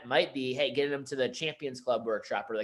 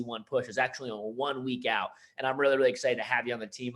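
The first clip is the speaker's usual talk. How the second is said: pumped-up manager pitch. Retold or imitated. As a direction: fire up the rep about the team's momentum. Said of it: "Whatever that means is there's some sort of promotion".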